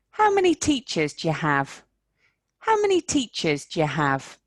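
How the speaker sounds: "do you" as "ja"; "How many teachers ja have"; squashed do you. Shown as a demonstration. Teacher showing "do you" reduced. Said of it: "Remember, this becomes ja".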